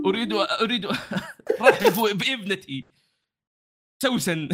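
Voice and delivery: slow proud presentation; formal standard arabic. Acted. GM voices host NPC.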